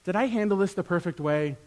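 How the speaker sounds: soft, hushed musing to oneself; humble private admission; reflective self-questioning. Retold or imitated. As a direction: ponder it quietly, ending low. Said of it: "before God and being like".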